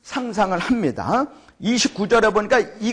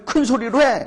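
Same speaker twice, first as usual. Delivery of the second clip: raised-pitch jeering order; mocking taunt; 5 semitones higher than usual. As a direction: goad the prophets mockingly. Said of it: "막 그러는 거예요".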